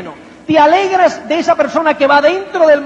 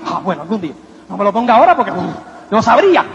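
relieved dwarves; 7 semitones lower, faster than usual. Retold or imitated. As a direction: sigh it out like a relieved little helper.

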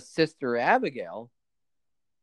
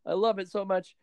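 giddy Alexa Bliss. Retold or imitated. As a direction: gush like a thrilled young woman. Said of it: "and like".

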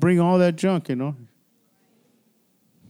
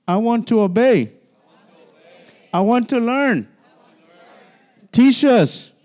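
leading a repeat-after-me prayer; 5 semitones higher, 5 dB louder than usual. Shown as a demonstration. Pastor leading the congregation in repeating a vow, building to a call. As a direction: call each line out for the church to echo, building to a cry. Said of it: "Then repeat after me".

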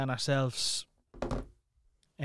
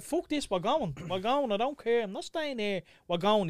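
higher-pitched, adamant retold refusal; insistent; 5 semitones higher than usual. Parent deciding to leave with crying child, insistent. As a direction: replay putting your foot down.

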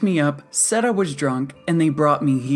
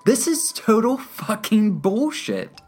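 loud, high, drawn-out outrage; slow down and hammer each word in fury; exasperated high-pitched yell; furious outburst; 6 dB louder, slower than usual. A narrator's reading. Angry patient throws hands up.

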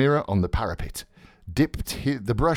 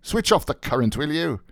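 brisk, higher-pitched instruction; 8 semitones higher than usual. Acted. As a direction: breezily wrap it up with a brisk request. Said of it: "he cried briskly".

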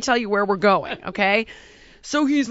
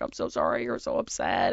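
much lower, soothing mock sympathy; diplomatic little sister; 4 dB quieter than usual. Mimicking her little sister soothing her, lower and softer. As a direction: imitate the sister, soft and placating. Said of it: "more diplomatic".

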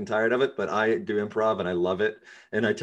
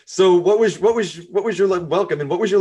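laughing; 9 semitones higher, 6 dB louder than usual. Real, not acted. Host laughing through question.

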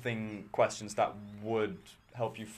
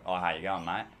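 broad Australian bogan greeting; bogan accent; 2 semitones lower than usual. Shown as a demonstration. Host shows a friend his disliked voice, in a bogan accent. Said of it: "I sound like a bogan".

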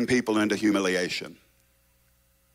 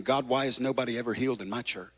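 softer, quick pleading voice; quiet pleading prayer; 6 dB quieter, faster than usual. Pretend. Pastor praying to God, softer and quick. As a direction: murmur it as a prayer.

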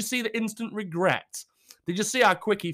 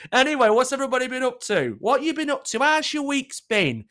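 bright greeting; 7 semitones higher, 5 dB louder than usual. Real, not acted. Greeting viewers, upbeat.

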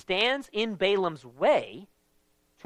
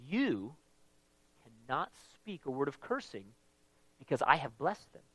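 God's voice; 6 semitones lower, 14 dB quieter than usual. Retold or imitated. God voiced in retold story.

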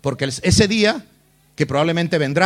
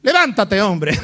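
brusque command; 2 semitones higher, 3 dB louder, slower than usual. Acted. God tells prostrate Joshua to get up, brusque command. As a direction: order him up brusquely, as God. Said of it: "el Señor mira a Josué y le dice".

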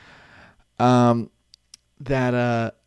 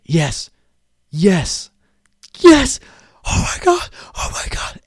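building yes yes yes into a high, loud squeal; growing excitement; 9 semitones higher, 5 dB louder, slower than usual. Retold or imitated. Imagined winner to his buddy, building excited squeal. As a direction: cheer it up until the voice cracks. Winner watching numbers drawn.

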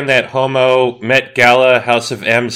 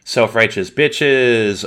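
sassy slogan; much slower than usual. Pretend. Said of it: "We have to be like".

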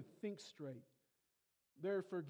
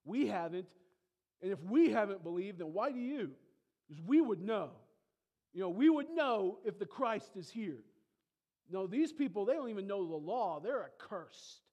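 louder, indignant lecturing; mock furious Pharisees; 2 semitones higher, 6 dB louder than usual. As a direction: play the angry leaders scolding. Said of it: "And they say".

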